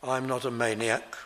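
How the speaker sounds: low, understated denial; composed, lightly voiced reply; calm and polite. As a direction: restate it gently, without heat. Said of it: "He says it calmly".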